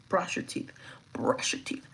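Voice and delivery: soft urgent whisper; whispered reminder. Real, not acted. Advising viewers after vomiting, whispered. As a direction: whisper the advice.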